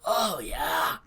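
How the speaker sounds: put-on high, loud, slow old man; cranky old hermit calling out. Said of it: "how to do old man voice".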